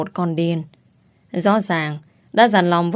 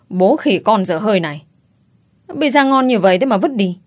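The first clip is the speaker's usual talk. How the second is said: scolding; 2 semitones higher, 3 dB louder than usual. Acted. Friend scolds over thrown pizza.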